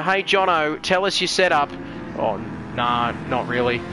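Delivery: ordinary talk, nothing marked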